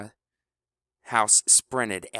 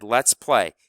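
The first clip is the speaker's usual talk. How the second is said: shout; 7 dB louder than usual. Acted. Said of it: "House shouted".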